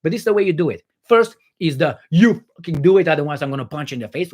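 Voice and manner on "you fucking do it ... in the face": louder opening, then rattled off; hammed-up threatening outburst; mock threat. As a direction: act out a bullying threat. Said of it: "with threats".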